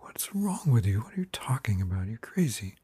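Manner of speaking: hushed, exasperated hiss at her husband; frustrated wife hissing at husband; exasperated whisper. Retold or imitated. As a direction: whisper it like she's fed up.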